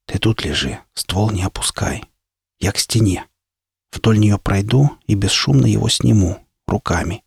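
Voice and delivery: whispering. A narrator's reading. Partner whispers plan near enemy.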